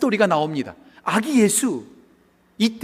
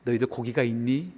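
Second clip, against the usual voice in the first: low, softened question to the disciples; gentle concern; 5 semitones lower, 3 dB quieter than usual. Acted. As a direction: ask them kindly, with care. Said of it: "걱정부터 하세요". (걱정하듯 낮고 부드럽게)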